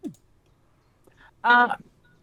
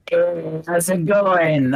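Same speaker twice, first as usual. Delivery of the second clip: Mister Blip voice; much slower than usual. Retold or imitated. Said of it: "The only voice I remember is".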